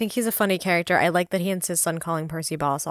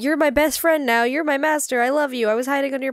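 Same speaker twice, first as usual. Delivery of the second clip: much higher, louder, gushing talking-dog voice; eager talking dog, high and loud; Doug from Up; 8 semitones higher, 4 dB louder than usual. Retold or imitated. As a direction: gush like an adoring dog. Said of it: "he talks a lot like, like Doug from Up".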